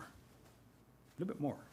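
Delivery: slow, very soft whisper; whispered coaxing. Acted. Thunder easing turtle further out of the way, whispered. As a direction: barely breathe it, drawn out.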